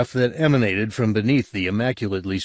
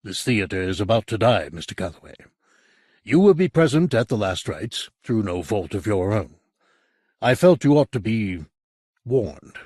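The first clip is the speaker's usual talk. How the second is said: businesslike; 3 dB louder than usual. Acted. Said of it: "Then, businesslike once more".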